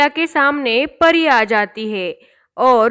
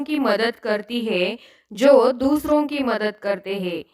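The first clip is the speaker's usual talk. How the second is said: softer, stern fairy passing judgment; lightly voiced fairy, softer and stern; 4 dB quieter than usual. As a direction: pronounce her punishment calmly. Fairy scolds Sweety.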